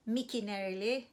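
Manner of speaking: Mickey nereli with a rising end; rising question tune. Shown as a demonstration. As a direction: ask it like a real question. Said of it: "we can replace o with a name".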